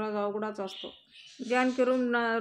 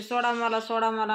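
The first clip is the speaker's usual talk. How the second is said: shouting in sleep; 4 dB louder than usual. Retold or imitated. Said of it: "स्वप्नातच ओरडत असते".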